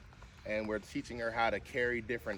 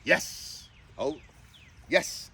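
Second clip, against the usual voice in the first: excited whispered praise; 4 semitones higher, 4 dB louder, much slower than usual. Real, not acted. Praising dog in training.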